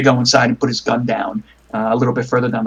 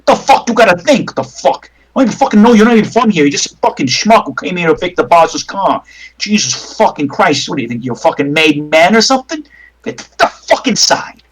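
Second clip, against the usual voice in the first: angry; 4 semitones higher than usual. Acted. Bruiser keeps berating player.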